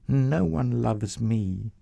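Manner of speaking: slow, soft and sorrowful; mild sadness. Acted. Leah saying no one loves her, slow and sad. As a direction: say it slowly, heavy-hearted.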